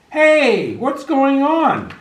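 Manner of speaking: high, loud angry call; butcher shouting. A narrator's reading. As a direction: shout at the thieving puppy. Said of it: "he began to shout".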